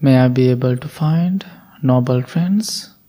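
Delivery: voiceless whisper, "find" lifted at the end. Acted. Guide whispering the wish for noble friends. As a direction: breathe "May I be able to find" in a whisper. Loving-kindness phrase, whispered take.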